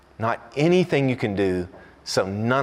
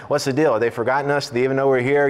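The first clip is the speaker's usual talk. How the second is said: mock indignation; 3 semitones higher, 3 dB louder, faster than usual. Acting out impatient diners' inner complaint.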